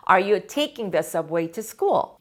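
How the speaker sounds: Are you taking the subway to school? said very slowly and clearly; slow, careful question for the class; slow model question. Shown as a demonstration. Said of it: "teacher models the question".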